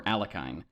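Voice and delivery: Alekhine as AL-uh-kine; third pronunciation variant. Shown as a demonstration. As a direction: say Alekhine ending like 'kine', rhyming with 'fine'. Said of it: "any one of those three ways".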